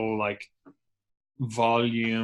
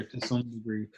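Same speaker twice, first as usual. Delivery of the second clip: laughing mock quote; 7 dB quieter than usual. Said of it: "Don't be fucking thrown in your".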